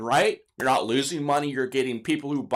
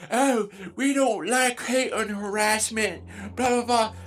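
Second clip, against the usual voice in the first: mocking sneer; 4 semitones higher than usual. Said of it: "they're like".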